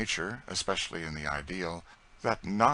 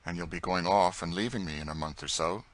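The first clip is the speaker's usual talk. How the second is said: discontented. Acted. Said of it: "he added rather discontentedly".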